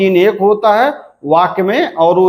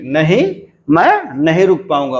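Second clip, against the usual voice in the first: rising "नहीं", then quick fall through "रुक पाऊंगा"; negative-sentence tune. Shown as a demonstration. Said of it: "रुक पाऊंगा का एक".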